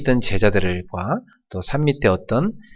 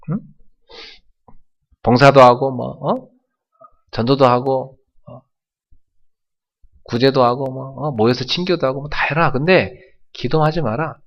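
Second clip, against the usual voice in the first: taunting devil; 3 semitones higher than usual. Retold or imitated. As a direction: jeer at the church. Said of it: "조롱합니다".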